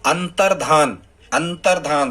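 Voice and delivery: अंतर्धान said an-tar-dhaan, no ya; teacher repeats अंतर्धान for students; model answer, repeated. Shown as a demonstration. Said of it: "क्या है?".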